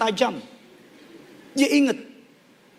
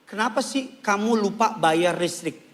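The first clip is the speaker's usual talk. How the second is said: accusing question; 6 semitones lower than usual. Shown as a demonstration. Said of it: "Aku kecewa kamu lupa bayar listrik".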